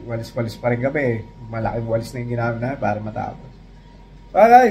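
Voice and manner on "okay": high loud call; boss calling out. Retold or imitated. Boss calling the workers, high loud call. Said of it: "sabi nga sa amin".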